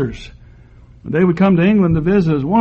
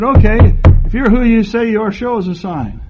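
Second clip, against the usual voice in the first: mocking Pharisee challenge; 4 semitones higher, 4 dB louder than usual. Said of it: "The Pharisee said".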